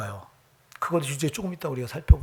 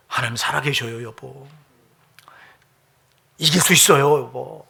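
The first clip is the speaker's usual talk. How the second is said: encouraging wife; 2 semitones lower than usual. Pretend. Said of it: "이렇게 힘을 줬으면 얼마나 좋아".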